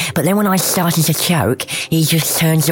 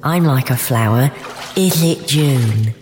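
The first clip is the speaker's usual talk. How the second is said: poem reading. Acted. Reads her poem aloud.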